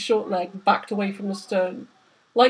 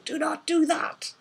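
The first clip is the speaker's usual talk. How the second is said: urgent whisper; 7 semitones higher, 4 dB quieter than usual. A narrator's reading. Urgent hushed warning.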